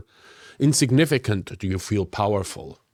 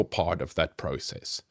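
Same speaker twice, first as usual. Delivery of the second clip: whisper; 7 semitones lower, 8 dB quieter than usual. Real, not acted. Lesson aside, breathy hush.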